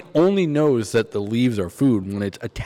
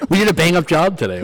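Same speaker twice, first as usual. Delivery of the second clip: mock British police; 7 semitones higher, 6 dB louder than usual. Mock British police celebrating a raid.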